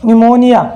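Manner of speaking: निमोनिया opening on n, p silent; silent-p pronunciation. Shown as a demonstration. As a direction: answer with निमोनिया, no p sound. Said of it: "इसे क्या बोलेंगे".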